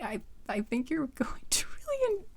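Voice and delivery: laughing under the breath, whispered; stifled laugh while whispering; giggling whisper. Real, not acted. Embarrassed, can't finish sentence.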